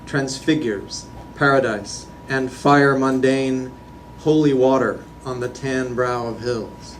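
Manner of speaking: deliberate recital with pauses between images; poetry reading. Acted. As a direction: read it out as a poem, evenly projected. Reads own poem aloud.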